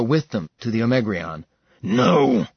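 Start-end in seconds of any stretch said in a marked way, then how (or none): 1.8-2.5 roared no. Acted. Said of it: "Max roared".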